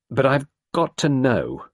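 put-on a flustered young woman confessing; embarrassed young woman recalling; Sarah, young woman. A narrator's reading.

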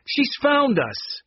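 high, drawn-out cry of dismay; alarmed cry. A narrator's reading. Tate spots Monica arriving, alarmed cry. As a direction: sound the alarm, high and stretched.

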